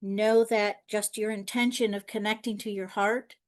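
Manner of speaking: lightly softened, measured meditation guiding voice; calm guided-meditation delivery with long silences. Acted. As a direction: talk listeners gently into stillness, leaving long pauses.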